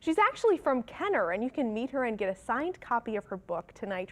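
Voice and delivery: measured TV anchor delivery; news read. Acted. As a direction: read it as a morning news update. Reads the morning news.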